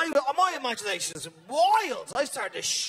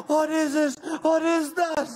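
calling out; 5 semitones higher, 6 dB louder than usual. Retold or imitated. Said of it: "I'll open the window going".

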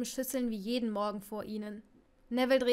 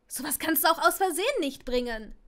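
higher, louder, voice breaking upward; voice cracking; 4 semitones higher, 5 dB louder than usual. Acted. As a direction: let her voice crack in outrage. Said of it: "Ihre Stimme kiekste". (Ginny empört, Stimme kiekst)

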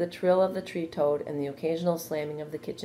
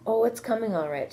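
higher, airy reassurance; light, breezy; 7 semitones higher, 3 dB louder than usual. A narrator's reading. Charlotte answering anxious Wilbur about her plan, lightly. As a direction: brush the worry off lightly. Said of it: "she said lightly".

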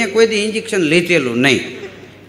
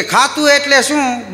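mocking officer; 6 semitones higher, slower than usual. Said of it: "તો કે".

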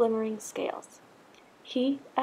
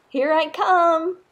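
happy answer; 6 semitones higher, 8 dB louder, slower than usual. A narrator's reading. Joining his friends happily.

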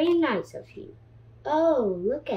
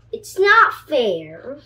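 slow, loud, sulky complaint; pigeon complaint; 2 semitones higher, 7 dB louder, slower than usual. Acted. Pigeon whining to the duckling that it is not fair, slow and loud. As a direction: drag out the unfairness.

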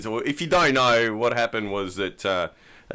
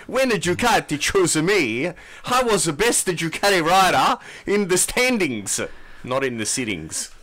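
high, loud mock Italian accent for Petrucci; hammed-up Italian rider voice; 6 semitones higher, 3 dB louder than usual. Podcast host reading Petrucci's quote in a mock Italian accent. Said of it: "You gonna do this with his accent?".

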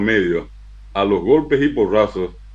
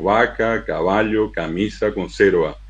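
"Vaca, caballo, camisa, conserva" stressed on next-to-last syllables; Spanish stress in "Vaca, caballo, camisa, conserva"; penultimate stress; slower than usual. Shown as a demonstration. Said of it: "tienen acentos llanos".

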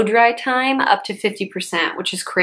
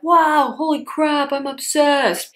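mock excitement; 7 semitones higher, slower than usual. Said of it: "I'm not like".

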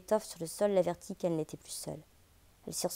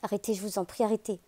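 pleading; 4 semitones higher, 3 dB louder than usual. Acted. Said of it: "elle supplia".

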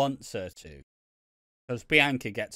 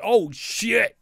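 shocked; 8 semitones higher, 7 dB louder than usual. Retold or imitated. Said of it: "I was genuinely like".

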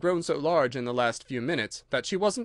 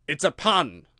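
angry; 5 dB louder than usual. Acted. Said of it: "in an angry tone".

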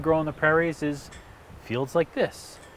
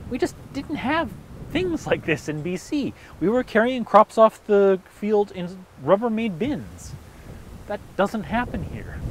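excited; 8 semitones higher, 5 dB louder than usual. Real, not acted. Exclaiming about BC contrast.

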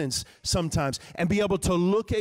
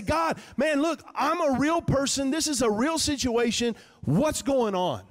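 raised, higher voice calling out to God; bold prayer; 6 semitones higher than usual. Pretend. Preacher voicing a frustrated prayer, raised and high. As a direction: call out to God, raw and real.

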